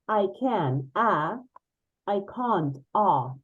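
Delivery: British accent, "can't" with a long open ah; British accent, "I can't" said as "I cahn't". Shown as a demonstration. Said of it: "and this is I can't".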